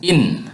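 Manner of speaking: In lifted high and clear; In sung out as a demo; Serer word in. Shown as a demonstration. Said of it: "In means we".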